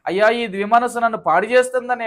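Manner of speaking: high-pitched acted lament to God; imitated tearful plea. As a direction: plead like a penitent, without real sobs. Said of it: "ఏడవండి". (ఏడుస్తూ వేడుకుంటున్నట్టు అభినయం)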